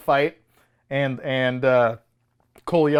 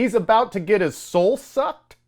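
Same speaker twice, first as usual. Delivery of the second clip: higher, disbelieving read of a movie line; incredulous line quote; 5 semitones higher than usual. Retold or imitated. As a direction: quote it as if you can't believe it. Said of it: "is a line that was said".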